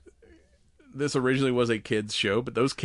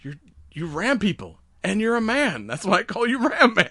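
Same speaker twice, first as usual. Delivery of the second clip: dumb hero voice; 10 semitones higher, 5 dB louder than usual. Retold or imitated. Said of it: "It's like".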